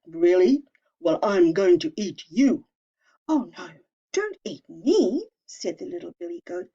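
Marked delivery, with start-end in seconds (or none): 0.0-2.7 troll voice. Acted. Troll threatens goat. 3.3-5.3 pleading little goat. Acted. Little goat begging the troll, mock frightened.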